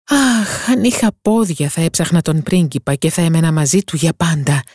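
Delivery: lightly voiced young mermaid, wistful and yearning; lightly voiced little mermaid. Mermaid tells her sisters her wish, wistful.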